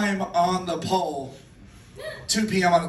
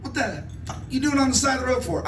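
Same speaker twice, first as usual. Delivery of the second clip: gruff cop; 6 semitones higher than usual. Retold or imitated. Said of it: "motorcycle cop Dave".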